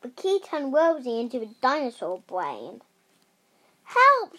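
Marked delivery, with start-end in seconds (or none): 3.8-4.4 high, loud yell for help; shouting for help. A narrator's reading. Rosie turned into a dinosaur brain, shouting for help. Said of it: "shouted Rosie".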